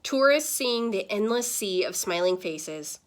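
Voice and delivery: put-on lively read-aloud to kids; animated classroom storytime voice; story narration. A narrator's reading. Reads picture book aloud.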